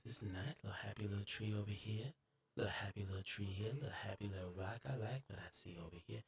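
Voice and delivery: soft, gentle painter murmur; Bob Ross imitation. Gamer admiring the map like a painting show, softly. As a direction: coo over the scenery like a TV painter.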